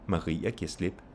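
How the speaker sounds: "Maria" and "slip" both stressed, "giver" light. Shown as a demonstration. Teacher contrasting name with pronoun, stress on "Maria" and "slip". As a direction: put weight on "Maria" and on "slip". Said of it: "Now you have stress on Maria".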